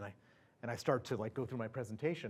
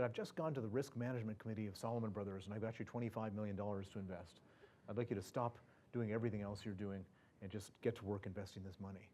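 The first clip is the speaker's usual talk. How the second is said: softer, even and unhurried, no drama; very calmly; 2 semitones lower, 6 dB quieter than usual. Retold or imitated. Senior partner calmly tells the nervous analyst he got him money, soft and even. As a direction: lay out the big news with total calm. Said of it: "he says very calmly".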